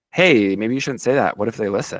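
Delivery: normal talking voice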